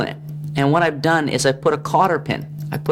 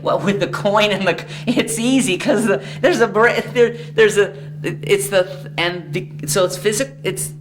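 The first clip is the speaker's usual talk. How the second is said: laughing; 7 semitones higher, slower than usual. Real, not acted. Breaks into laughter mid-explanation.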